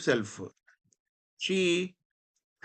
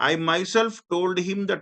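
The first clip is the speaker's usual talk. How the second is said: myself pressed firmly in a slow reading; emphatic myself; 3 semitones higher, much slower than usual. Shown as a demonstration. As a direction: lean on myself slowly. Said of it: "గట్టిగా చెప్పడం, నొక్కి చెప్పడం". (myself ని నొక్కి చెప్పడం)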